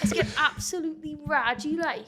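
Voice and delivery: wobbly Geordie catchphrase impression; Charlotte from Geordie Shore. Shown as a demonstration. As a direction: have a go at Geordie, slipping towards Welsh. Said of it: "like Charlotte from Geordie Shore".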